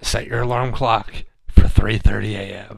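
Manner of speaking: low, mildly ominous reading; a touch of spooky ritual master. Acted. Reading ritual instructions to a co-host, mildly spooky. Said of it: "you gotta get spooky".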